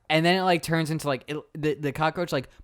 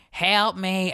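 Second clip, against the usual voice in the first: put-on pleading old lady; 6 semitones higher than usual. Voices dying lady calling for help.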